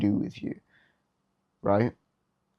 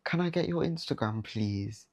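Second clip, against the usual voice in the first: needy pleading ask; 6 dB quieter than usual. Retold or imitated. Insecure guy pleading a girl for her Instagram, whiny mock beg. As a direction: ask like you're begging for a favour. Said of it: "it just sounds worse".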